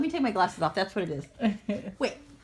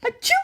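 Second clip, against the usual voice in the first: fake sneeze; 10 semitones higher than usual. Shown as a demonstration. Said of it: "Like that".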